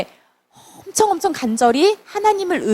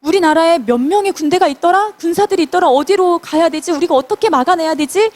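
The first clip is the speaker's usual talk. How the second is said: fretful higher panicky voice; scared king; 4 semitones higher, faster than usual. Retold or imitated. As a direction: play the frightened king, anxious questions. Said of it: "막 이렇게 두려워하면서 초조해하면서". (두려워 초조한 왕의 목소리)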